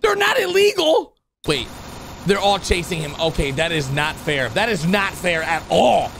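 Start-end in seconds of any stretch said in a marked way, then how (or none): 0.0-1.2 high-pitched, incredulous outburst; outraged shock. Acted. Gamer protesting the chip police chase, outraged shock. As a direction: cry out in exaggerated disbelief.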